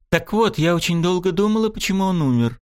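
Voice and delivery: cold, hard, lightly voiced woman; steely voice. A narrator's reading. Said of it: "Голос Сирены обрёл сталь".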